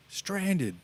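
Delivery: high, clipped one-word Walken impression; Christopher Walken. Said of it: "he does it in Christopher Walken's voice".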